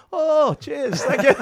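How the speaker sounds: high, laughing through a grateful thanks; laughing through quote. Retold or imitated. Storyteller quoting the pop star's thanks, laughing. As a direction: giggle out the thank-you.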